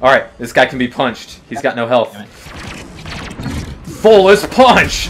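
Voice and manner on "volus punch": slow drawn-out attack shout; battle cry. Real, not acted. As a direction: yell the move name, stretched out. Shouting his signature attack.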